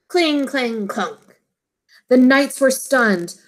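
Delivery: put-on storybook voice for young listeners; reading to children. A narrator's reading. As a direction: read it gently to a class of kids. Teacher reads picture book aloud.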